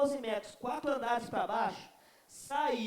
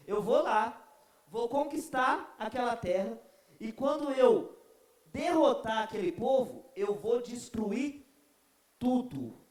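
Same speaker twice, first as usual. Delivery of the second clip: louder, slow, menacing threat; a lightly voiced tyrant vowing destruction; mock ruthless conqueror; Babylonian conqueror; 3 dB louder, slower than usual. Preacher voices Babylonian empire.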